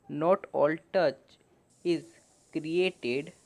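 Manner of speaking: slow, careful English reading for learners; slow reading aloud. Shown as a demonstration. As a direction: read each phrase slowly and clearly. Reads English passage slowly for learners. (धीमे-धीमे साफ़ अंग्रेज़ी पढ़ना)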